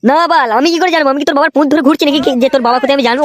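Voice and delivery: put-on annoyed, quick scolding at the boy; irritated snap. Grandfather scolding his grandson, fast and irritated. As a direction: tell him off, fed up with his questions. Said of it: "তুমি এত চিল্লাচ্ছ কেন?".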